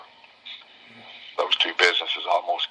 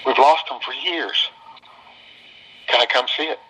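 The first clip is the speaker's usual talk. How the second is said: tearful; 7 semitones higher than usual. Retold or imitated. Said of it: "She starts crying on the phone".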